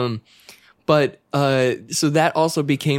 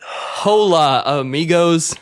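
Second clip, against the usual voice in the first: put-on slow, louder gringo Spanish with an American accent; Hank Hill gringo Spanish; 3 semitones higher, 3 dB louder, slower than usual. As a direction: play a Texan propane salesman mangling Spanish. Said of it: "as Hank Hill".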